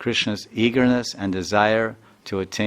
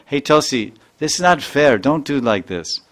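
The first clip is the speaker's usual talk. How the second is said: protesting friend; 3 semitones higher, 4 dB louder than usual. Retold or imitated. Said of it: "she even says".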